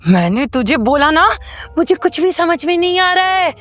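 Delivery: put-on possessed girl demanding to be taught; frantic insistence. Possessed girl frustrated with friend.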